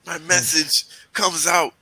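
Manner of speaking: high, smooth radio DJ delivery. Pretend. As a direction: announce it like a late-night DJ. Joking about DJs talking with hands.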